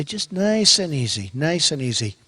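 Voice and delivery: lightly voiced father easing his son down; gentle father Fred. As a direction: soothe like a patient dad. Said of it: "my father, Fred. He'd say".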